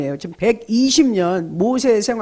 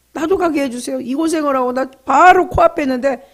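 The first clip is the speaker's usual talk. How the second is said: pleading; 6 semitones higher, 4 dB louder than usual. Acted. Moses pleading with God.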